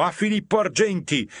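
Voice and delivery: high, loud jeering cry; loud mocking shout; crowd shout. A narrator's reading. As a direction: shout the name out like a mob. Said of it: "Tutti gridavano".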